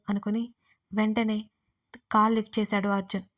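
ordinary delivery

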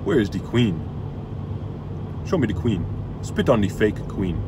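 mock Ugandan Knuckles accent, lightly done; imitated Ugandan accent. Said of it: "They talk with this accent".

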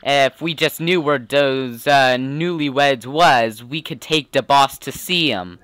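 streetwise gangster's sidekick voice; mob henchman. Acted. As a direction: talk like the boss's loyal goon.

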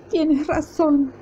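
slow, tearful admission; sobbing. A narrator's reading. Magda agrees with her husband, slowly sobbing. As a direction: choke the words out through tears. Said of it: "sollozó Magda".

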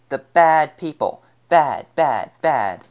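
put-on loud, slow, high panicked child's cry. Little girl runs to Jess from the tunnels, frightened shout.

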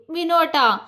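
high, falling teasing call of his name; playful scolding call. Acted. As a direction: call him out with a smile. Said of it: "Gauri അവനെ കുറുമ്പോടെ വിളിച്ചു". (കുറുമ്പോടെ വിളിക്കുന്നു)

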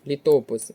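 Літопис stressed on ТО; Літопис as лі-ТО-пис; stress on second syllable. Shown as a demonstration. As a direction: hit ТО in Літопис. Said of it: "на другий склад".

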